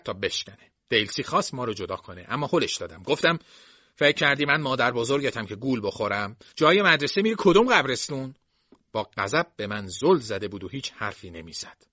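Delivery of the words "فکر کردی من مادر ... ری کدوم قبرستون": louder, higher furious tirade; rising into a shout of rage; angry yelling. Acted. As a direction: uncle yelling at his niece, furious. Jason shouts at niece.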